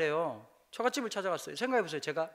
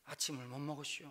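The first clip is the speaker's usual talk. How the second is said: put-on Chungcheong accent; 6 semitones lower, 14 dB quieter than usual. Chungcheong customer answers the server, soft Chungcheong accent. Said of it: "충청도 사람들은 어떻게 하니까".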